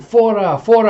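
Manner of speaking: high, loud repeated shout; urgent call. Acted. Player calls the ball out, high urgent shout. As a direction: shout a line call across the court.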